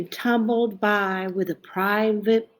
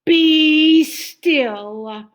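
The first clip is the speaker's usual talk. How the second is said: higher, louder firm command; commanding Max; 7 semitones higher, 5 dB louder than usual. Acted. Max taming the monsters, commanding them firmly. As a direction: stop them with one firm order. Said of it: "Till Max said".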